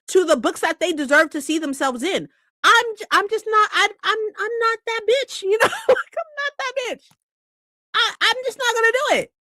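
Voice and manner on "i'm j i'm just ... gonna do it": laughing high. Real, not acted. Laughing high-pitched rant.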